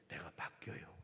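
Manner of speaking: soft, awed whisper. Real, not acted. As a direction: let it fall to a hushed whisper. Climax of sermon point.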